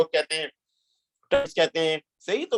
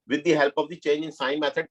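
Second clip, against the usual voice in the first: slow dictation; much slower than usual. Shown as a demonstration. Reading the question text aloud.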